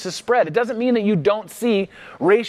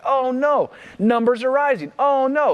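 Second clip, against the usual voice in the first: mock panic; 7 semitones higher than usual. Mock panic at virus news.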